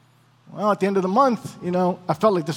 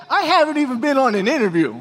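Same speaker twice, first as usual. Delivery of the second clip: high-pitched protest, retold; exasperated reply; 5 semitones higher than usual. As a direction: protest in disbelief, voice raised in pitch. Husband's exasperated reply to wife.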